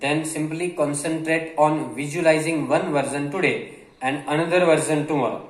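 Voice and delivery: reads the English line very slowly, word by word; slow dictation reading. Acted. Teacher reading a passage slowly to Gujarati learners. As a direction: spell it out slowly for the students.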